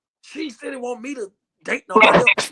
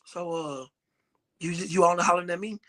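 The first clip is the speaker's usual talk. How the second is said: low, soft, hesitant caller; sneaky phone caller; 9 semitones lower, 5 dB quieter than usual. Acted. Friend fishing on a three-way call, casual low probe. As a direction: feel them out in a low, quiet voice.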